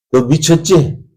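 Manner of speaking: acted scoff; scoffing disbelief. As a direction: challenge them as if they're crazy. Household scoffs at the girl.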